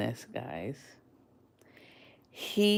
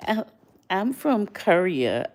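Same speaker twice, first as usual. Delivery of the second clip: humble; 5 semitones higher, 3 dB louder than usual. Retold or imitated. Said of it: "He was like".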